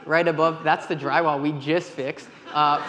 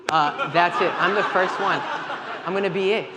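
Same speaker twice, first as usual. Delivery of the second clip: laughing; 3 semitones higher, 3 dB louder than usual. Retold or imitated. Retold panic, laughing through it.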